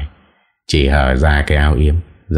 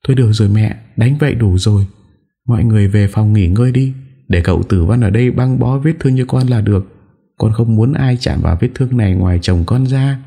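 sniffling; 6 semitones higher, faster than usual. A narrator's reading. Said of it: "giọng sụt sùi".

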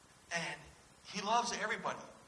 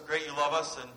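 a shrugging, indifferent cat, lightly voiced; loud, offhand cat's shrug; bored cat; 7 dB louder than usual. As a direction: say it like an unimpressed cat. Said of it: "the cat that looks up and says".

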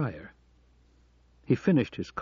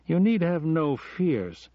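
reassuring; 8 semitones higher, 3 dB louder, slower than usual. Acted. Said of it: "trying to reassure her".

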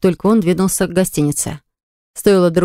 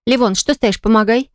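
bossy; 4 semitones higher than usual. Acted. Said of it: "начала командовать Милана".

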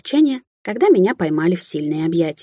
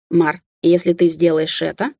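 soft start. Acted. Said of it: "мягко начал Амбер".

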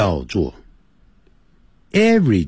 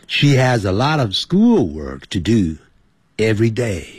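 model sentence reading. Shown as a demonstration. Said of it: "所以这个句子要这么念".

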